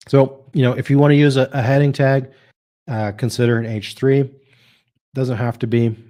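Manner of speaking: talking while crunching a cough drop. Real, not acted. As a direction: speak around a crunching lozenge. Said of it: "If you guys hear me crunching".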